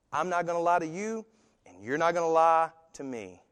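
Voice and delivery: dad voice. Retold or imitated. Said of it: "old dad's in his dad voice".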